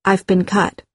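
calm, matter-of-fact statement; composed, understated report; calmly. Acted. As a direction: state it evenly, without alarm. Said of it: "I said calmly".

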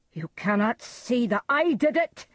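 high, loud guilty cry. A narrator's reading. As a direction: cry out at the ghost. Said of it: "Macbeth cried to the ghost".

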